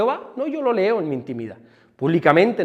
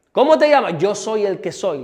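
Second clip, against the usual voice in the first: voicing the dialogue; 2 semitones higher, 4 dB louder than usual. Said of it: "le dijo Dios".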